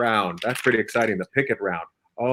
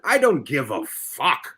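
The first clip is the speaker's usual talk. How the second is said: imitating indifference; 4 semitones lower, 3 dB quieter, slower than usual. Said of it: "I like Friendy's answer".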